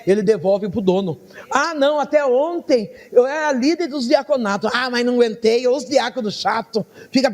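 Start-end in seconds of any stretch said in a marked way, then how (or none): 1.5-7.3 mock complaint, pitched up; queixa imitada. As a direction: whinge like a quitting church leader. Acted complaint of quitting leader. (reclamação encenada em tom mais agudo)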